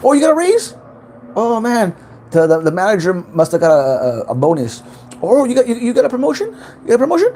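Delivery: high, loud mock amazement; backhanded praise. Narcissists faking delight at a raise or promotion, backhanded and high-pitched. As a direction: gush with exaggerated, insincere surprise. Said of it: "they're backhanded. Everything is like".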